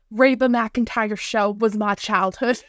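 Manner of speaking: put-on slow playful southern accent. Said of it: "get my southern accent out".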